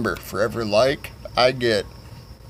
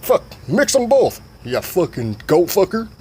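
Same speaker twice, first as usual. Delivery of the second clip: high-pitched mock cussing out; irritated parent; 6 semitones higher than usual. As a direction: order it crossly in a raised voice. Voices annoyed Nim.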